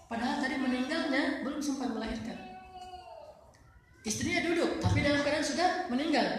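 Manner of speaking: usual speaking voice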